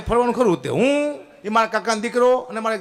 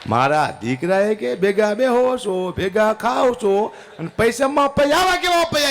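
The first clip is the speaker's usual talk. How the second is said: indignant Darbar. Retold or imitated. Darbar protests the money refusal.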